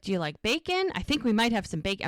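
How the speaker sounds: mildly frantic, hurrying through the offer. Retold or imitated. Woman fussing over a sick man's breakfast, mildly frantic. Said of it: "she's, like, frantic".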